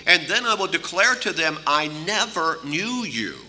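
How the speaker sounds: firm scriptural declaration, slowing on the last words; direct, emphatic. Retold or imitated. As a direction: declare it emphatically, drawing out the final phrase. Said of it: "responds in a very direct and emphatic way".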